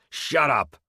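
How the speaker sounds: high, loud, furious scream. A narrator's reading. Narrator screams at the old prisoner, furious loud scream. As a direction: snap him silent. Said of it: "I screamed at the old man".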